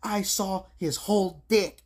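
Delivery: high, loud and slow mock voice; imitating the waitress. Waitress describing the flasher, slow high mock voice. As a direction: drag it out like a shocked girl. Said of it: "She's like".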